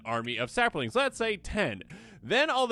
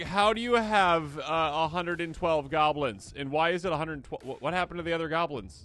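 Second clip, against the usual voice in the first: baffled opponent; 2 semitones higher than usual. Retold or imitated. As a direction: sound lost at the goblin count. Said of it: "you're like".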